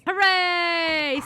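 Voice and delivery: loud, high, drawn-out hurrah; jubilant cheer. Real, not acted. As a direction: cheer the victory at full voice. Celebrating the boss kill.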